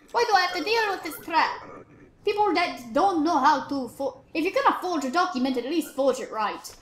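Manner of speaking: exasperated put-on British accent. Officer fed up with forgers, British accent. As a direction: grumble in an accidental British accent. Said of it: "I'm British now for some reason".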